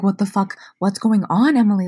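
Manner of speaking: confused mom demanding; mom demanding answers. Retold or imitated. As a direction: press her daughter for answers. Mom repeats louder.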